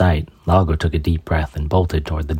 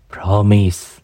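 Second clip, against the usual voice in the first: lamenting; 4 semitones higher than usual. Acted. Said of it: "she lamented".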